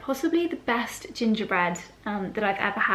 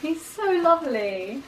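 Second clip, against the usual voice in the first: pet talk; 7 semitones higher than usual. Real, not acted. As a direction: coo adoringly at the dog. Cooing over the sleeping pet.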